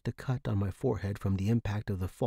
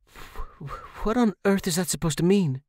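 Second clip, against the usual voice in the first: shocked stammer; 9 semitones higher, 3 dB louder than usual. Acted. Confused tenant stammers in alarm.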